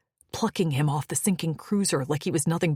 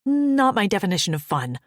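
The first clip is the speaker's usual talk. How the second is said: rasping; 3 semitones higher, 4 dB louder than usual. Acted. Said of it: "I managed to rasp out".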